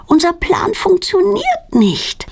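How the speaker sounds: high, slow, near crying; the plan failed and she is close to tears; tearful lament. A narrator's reading. Claudia laments to Petronella, high and tearful.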